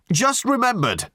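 shaken. A narrator's reading. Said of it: "sounding genuinely shaken".

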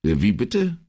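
puzzled, rising question; confused. Acted. Commissario baffled by his secretary's remark, confused. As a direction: ask as if you lost the thread. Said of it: "fragte Brunetti verwirrt".

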